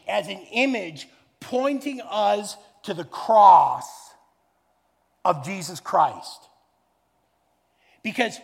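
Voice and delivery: loud, emphatic preacher climax; preaching at full force. Acted. Preacher urging the church to look to Jesus, loud fervent preaching. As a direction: drive the gospel point home to the congregation.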